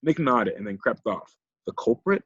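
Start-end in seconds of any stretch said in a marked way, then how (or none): 1.7-2.2 higher, with a giggle in it; giggling. Acted. Silas teases Tesla's fancy word, giggling. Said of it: "Silas said with a giggle".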